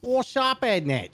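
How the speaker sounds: high, hammed-up Aussie-British voice; mock Australian accent. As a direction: ham up a bloody Aussie. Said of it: "You sound like Australian".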